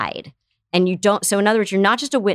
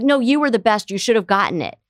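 mock consoling parent; 3 semitones higher than usual. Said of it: "And then you're like".

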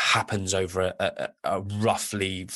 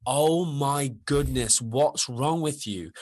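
slow, drawn-out mock despair; exasperated disbelief; 3 semitones higher, slower than usual. Coach reacting to a client's question, slow exasperated disbelief. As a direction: stretch it out like you can't believe what you're hearing. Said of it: "And I'm like".

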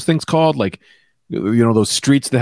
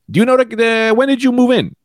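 higher-pitched cop asking a question; 9 semitones higher than usual. Retold or imitated. Cop asks mom about the house, questioning. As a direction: ask it as a cop probing, pitched up.

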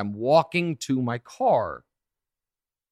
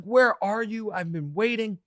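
retold angry yell, pitched higher; mock yell; 8 semitones higher than usual. Friend yelling at him for being late, mock angry. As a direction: mimic an impatient friend's shouted complaint. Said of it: "she's yelling at me".

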